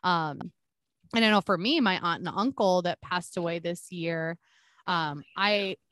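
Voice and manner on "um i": breaking up over bad internet; choppy cutting-out connection; glitching audio. Real, not acted. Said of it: "A little bit cutting out".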